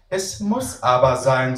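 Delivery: put-on slow, firm motherly tone from a child; a girl copying her mother's voice; imitating her mom. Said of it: "ahmt den Tonfall ihrer Mama".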